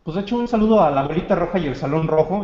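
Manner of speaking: talking with a mouthful; mouth full. Real, not acted. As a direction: speak around a bite of food. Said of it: "y yo hablando con la boca llena".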